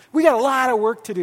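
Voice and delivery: quick, frank and upbeat; name the work plainly with a smile; honest but hopeful. Shown as a demonstration. Pastor showing the right way to tell a leader the truth, frank. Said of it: "uh, you go".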